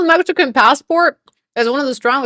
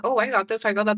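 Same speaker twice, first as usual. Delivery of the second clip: mock bragging; 6 dB quieter, faster than usual. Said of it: "I'm not one to say".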